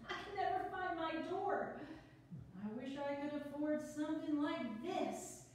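quick, bubbly, a little flustered; nervous newcomer rattling on; nervous chatty woman. Acted. The speaker reading her part.

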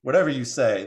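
firm, mildly serious retort; serious crow. Acted. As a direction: dismiss it seriously, at ordinary pitch. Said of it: "the crow said seriously".

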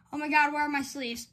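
quick, flustered question. Real, not acted. Card opener hunting for sleeves, flustered. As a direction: rush it out while freaking out. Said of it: "I'm freaking out".

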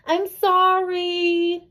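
high, slow called out sorry; called apology. A narrator's reading. Boy calling down to his friend from upstairs, called out. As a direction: call it down from the window.

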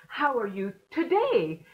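"today" carries the peak with a falling tune; stress on TODAY. Shown as a demonstration. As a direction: put the weight on "today" at the end, falling. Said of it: "And so on and so forth".

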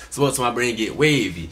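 repeating the lyric through a laugh. Real, not acted. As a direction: chuckle the line back.

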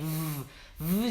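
"Vuu, vuu" like sawing wood, teeth on lip; hard v sound. Shown as a demonstration. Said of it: "ağaç kesiyorsunuz gibi". ("Vuu, vuu" sert v sesiyle)

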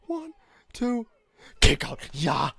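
high tense count then cheer; excited counting. Real, not acted. Live count reaction.

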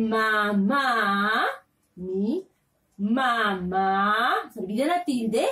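dictating word by word, syllables drawn out; patient classroom dictation; slow dictation. Shown as a demonstration. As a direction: spell it out slowly for small children. Teacher dictating syllables slowly.

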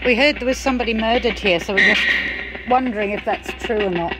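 loud, fast calling out. Real, not acted. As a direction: call out into the room. Calling out to the spirit.

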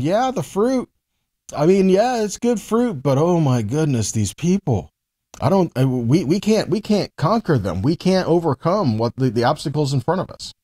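a hint of a frightened spy; fearful spy's report. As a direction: stammer out the fear of the people. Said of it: "the emphasis changes when told that way".

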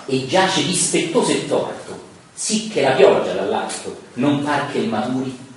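slow, measured verse recitation; lettura di versi. Acted. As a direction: recite Dante slowly, line by line. Reads Dante's verses aloud. (recitazione lenta di versi)

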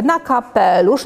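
usual speaking voice

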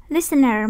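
LIS-tener, stress on the first syllable. Shown as a demonstration. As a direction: say "listener" with the beat on LIS. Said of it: "nhắn âm một nè". (nhấn âm đầu của "listener")

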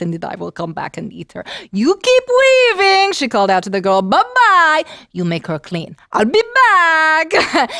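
scheming witch. Acted. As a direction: plot gleefully, then sing out goodbye. Witch plots with maid.

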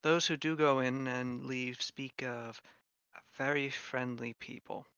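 soft, measured in-character voice; quiet, knowing informant. Acted. Shin telling travelers about an isolated town, quiet and informative. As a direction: share hearsay softly, in a hushed register. Game master continues as Shin.

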